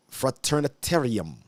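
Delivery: fraternitarium, a tentative go at Latin; attempted Latin pronunciation. Shown as a demonstration. Teacher attempting the dictionary's Latin for viewers, Latin pronunciation. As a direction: try fraternitarium as a Latin word. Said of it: "I'm gonna try to say it in the, in the Latin".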